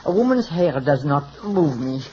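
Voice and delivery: put-on French hairdresser accent; phony French accent. Hairdresser apologizing to his client, phony French accent. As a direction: speak with a fake French accent. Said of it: "without the phony French accent".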